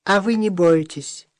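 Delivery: high, thin little man's voice; a thin, gentle reassuring pipe. Acted. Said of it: "тонким голосом сказал".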